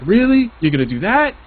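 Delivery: high, indignant whine at the other player; mock outraged whining; whiny complaint. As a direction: whine it like a sore loser. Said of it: "I'm a whiner".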